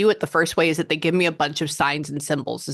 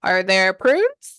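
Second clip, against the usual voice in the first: puzzled probing questions; 5 semitones higher, 4 dB louder, slower than usual. Retold or imitated. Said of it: "So I would be like".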